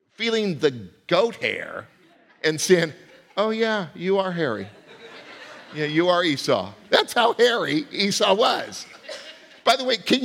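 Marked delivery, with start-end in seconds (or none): 3.4-6.7 lightly voiced old father, laughing; a hint of a fooled old man chuckling; blind father. Father touching goat hair, fooled and chuckling. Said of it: "when the father said".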